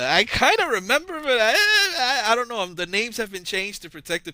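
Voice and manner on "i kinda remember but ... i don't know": mock crying. Mock testimony to officer.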